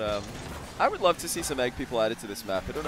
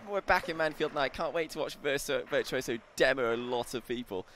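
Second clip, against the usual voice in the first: nasal caster voice; 3 semitones higher than usual. Retold or imitated. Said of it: "Cole's all the way up here, talks very nasal".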